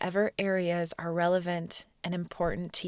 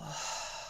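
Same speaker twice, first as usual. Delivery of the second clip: soft airy sigh; demonstrated exhale; 2 semitones lower, 12 dB quieter than usual. Shown as a demonstration. Teacher guides students to soften the shoulders, soft exhale. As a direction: release the breath quietly.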